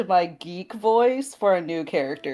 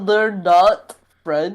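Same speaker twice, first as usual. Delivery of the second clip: nerd voice; much slower than usual. Acted. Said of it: "I fucking love Rox's nerd voice".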